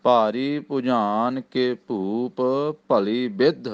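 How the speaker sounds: ਬਿੱਦ with a firm doubled d; tight ਬਿੱਦ. Shown as a demonstration. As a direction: press the d of ਬਿੱਦ. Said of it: "ਥੋੜ੍ਹਾ ਜਿਹਾ ਕੱਸ ਕੇ ਇਹਦਾ ਉਚਾਰਨ".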